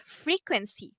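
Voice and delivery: "frequency" with stress on FRE; stress on first syllable. Shown as a demonstration. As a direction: model "frequency" clearly, first syllable strongest. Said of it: "have the stress on the first syllable".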